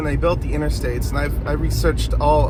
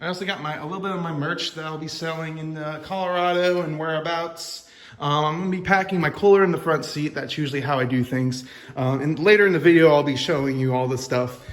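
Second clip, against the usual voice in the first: garage reverb. Real, not acted. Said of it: "sorry for the, uh, reverb in here".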